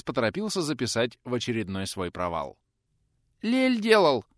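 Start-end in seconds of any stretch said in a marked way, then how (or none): 3.4-4.3 much higher, unsure little squeak; a small boy squeaking it out uncertainly; timid squeak. Acted. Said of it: "неуверенно пискнул малой".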